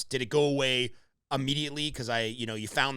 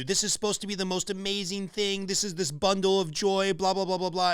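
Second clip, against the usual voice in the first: mocking sing-song; 5 semitones higher than usual. Mocking what everybody says.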